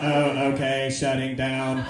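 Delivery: low monotone machine; mechanical robot voice. Acted. Robot told the man has finished, low mechanical monotone. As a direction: intone it low and even, powering down. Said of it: "that same mechanical voice".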